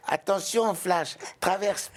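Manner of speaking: high, slow cartoon snail voice; Rapido the snail voice. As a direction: stretch it out like a tiny snail. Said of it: "l'escargot qui s'appelle Rapido parle à Flash".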